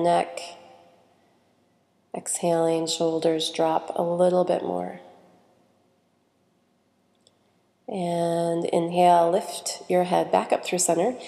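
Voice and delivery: calm, unhurried guidance with long pauses; guided meditation. Real, not acted. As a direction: ease them through each breath and stretch.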